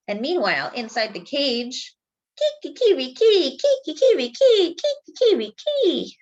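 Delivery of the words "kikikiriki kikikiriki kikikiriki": high, loud rooster crow; sung-out cock-a-doodle call. Acted. Rooster keeps crowing in cage.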